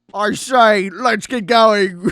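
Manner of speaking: loud, jokey, put-on British accent. Mocking a man who sounds fake British by imitating him in a fake British accent. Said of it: "He sounds like me doing a British impression".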